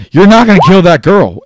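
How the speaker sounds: high, furious shouted refusal; losing his mind. Acted. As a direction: forbid it at the top of your voice. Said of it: "losing his mind right now".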